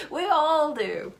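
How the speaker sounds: self-mocking chuckle; laughing. Real, not acted. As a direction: laugh it off lightly. Laughing about her own challenges.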